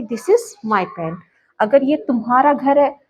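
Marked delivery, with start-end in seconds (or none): 0.0-1.2 each word said very slowly and apart; slow dictation. Shown as a demonstration. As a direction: spell it out slowly for students. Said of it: "तो कैसे कहूँगी?". (बहुत धीरे, शब्द-शब्द अलग करके)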